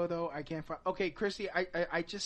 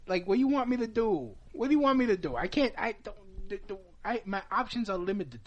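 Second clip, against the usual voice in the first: loud, high frustrated yelling; exasperated shout; 6 semitones higher, 8 dB louder than usual. Real, not acted. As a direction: yell it out, at wits' end. Exasperated rant continues.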